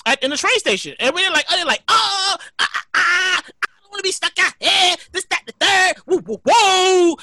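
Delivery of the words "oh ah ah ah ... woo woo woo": imitating a fussing crowd; drawn-out mock whooping at the end; mock commotion. People stuck in the station fuss, in mock commotion.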